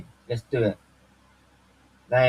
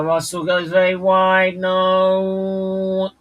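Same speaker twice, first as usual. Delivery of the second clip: alarmed shout; 6 semitones higher, 6 dB louder, slower than usual. Real, not acted. Watching race, sudden dismay.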